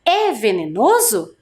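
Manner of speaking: "É venenoso?" as a clear model question; question intonation. Shown as a demonstration. Teacher reads for class to repeat, questioning tune. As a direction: say "É venenoso?" for pupils to echo. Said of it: "Eu vou ler uma vez e você repete aí".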